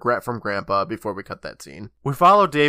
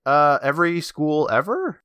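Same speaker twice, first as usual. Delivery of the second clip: sarcastic; 3 semitones higher than usual. Retold or imitated. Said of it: "And I'm like".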